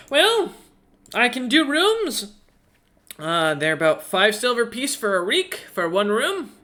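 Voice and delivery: high, eager little owl voice; chirpy owl innkeeper. Acted. Owl innkeeper welcoming Roloman, high and eager.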